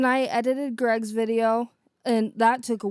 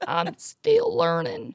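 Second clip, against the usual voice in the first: very high, slow put-on voice; Sue Dillon impression; 13 semitones higher, slower than usual. Learner trying Sue Dillon, high slow voice. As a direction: attempt the character, pitched way up. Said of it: "teach Chelsea how to talk like that".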